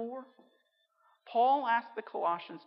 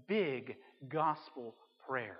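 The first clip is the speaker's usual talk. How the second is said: each word drawn out slowly; slow emphatic refrain; 5 semitones lower, 4 dB quieter, much slower than usual. Real, not acted. Preacher hammering his key phrase to the church, slow and weighty. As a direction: stamp the refrain home word by word.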